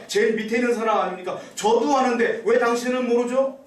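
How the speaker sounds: rising, needling put-down; mocking, shaming questions. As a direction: show them up with each question. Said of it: "완전히 망신, 망신을 주고 있는 거예요".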